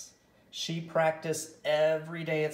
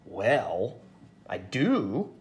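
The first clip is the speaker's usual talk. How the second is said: stubborn; 5 dB louder, much slower than usual. Acted. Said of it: "Sadako said stubbornly".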